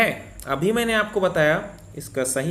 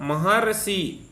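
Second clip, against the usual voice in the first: महर्षि stretched very slowly, each syllable separate; slow teaching demo of महर्षि; much slower than usual. Shown as a demonstration. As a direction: spell out महर्षि slowly so the अर is heard. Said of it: "अर आ रहा है".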